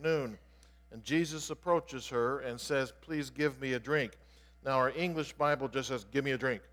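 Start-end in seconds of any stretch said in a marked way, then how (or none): 3.0-4.2 a polite, unhurried request; respectful and kind. Retold or imitated. Jesus asks the Samaritan woman for water, respectful and kind. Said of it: "he was being very respectful and kind". 6.1-6.6 quick, unsoftened request; rather blunt. Retold or imitated. English Bible wording of Jesus' request to the woman, rather blunt. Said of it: "Sounds like he's being rather blunt".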